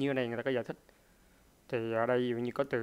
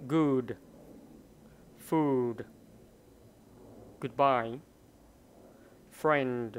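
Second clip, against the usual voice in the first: loud, isolated words for learners to follow; model pronunciation; 4 dB louder, much slower than usual. Shown as a demonstration. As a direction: read each word firmly, letting it fall. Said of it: "đọc lại một lần nữa để cho mọi người". (đọc mẫu to, rõ từng từ)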